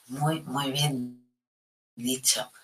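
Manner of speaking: whispering praise to the viewer Karina; whispered praise. Real, not acted.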